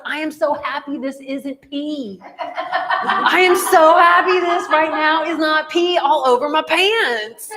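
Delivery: high, slow, laughing relief. Retold or imitated. Teacher to child, laughing with relief, high and slow. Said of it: "And I was like".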